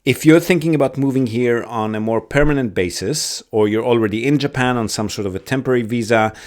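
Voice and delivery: steady outro read to listeners; podcast outro. Acted. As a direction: wrap up the episode, then plug the sponsor.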